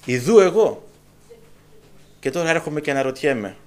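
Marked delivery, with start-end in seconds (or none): 0.0-0.9 here I am, called out firmly; a ringing divine reply; louder answer. Shown as a demonstration. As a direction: answer out loud with confidence. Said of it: "και ο Κύριος απάντησε".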